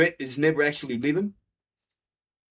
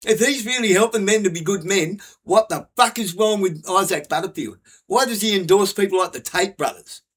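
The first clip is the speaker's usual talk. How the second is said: louder, higher, indignant questions; angry rant; 5 semitones higher, 5 dB louder than usual. Real, not acted. Ranting about a comedian, louder indignant questions. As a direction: demand an answer, fed up.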